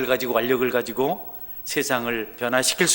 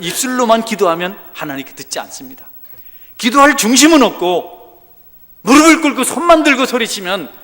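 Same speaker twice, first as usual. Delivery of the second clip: loud, high, impassioned preaching; fiery preaching; 8 semitones higher, 13 dB louder than usual. Acted. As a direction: preach it with full force. Preaching at full force.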